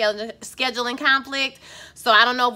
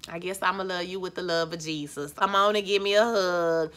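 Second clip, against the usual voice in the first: tender forgiveness; 4 semitones lower, 3 dB quieter than usual. Retold or imitated. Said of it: "You just be like".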